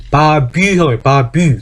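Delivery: "바뷰" with a German a and y as ü; letter-by-letter German reading of Baby; German spelling reading. Shown as a demonstration. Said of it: "그렇게 읽어야 돼요".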